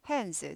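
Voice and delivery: "hands" with the D only lightly touched, like 핸스; D barely heard. Shown as a demonstration. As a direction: say "hands" so the D is hardly audible. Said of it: "발음은 하는데 잘 안 들려 정도로 하세요".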